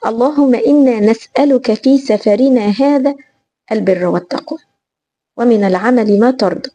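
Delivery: measured, formal prayer in classical Arabic; supplication recital. Acted. (تلاوة الدعاء بتأنٍّ ووقار)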